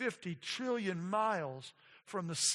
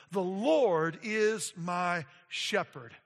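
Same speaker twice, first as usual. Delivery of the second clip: loud, slow proclamation; booming declaration of faith; confident declaration; 7 dB louder, much slower than usual. Shown as a demonstration. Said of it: "a confident utterance".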